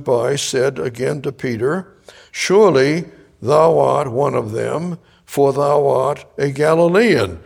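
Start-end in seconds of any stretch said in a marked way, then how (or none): 2.3-7.4 accusing bystanders. Acted.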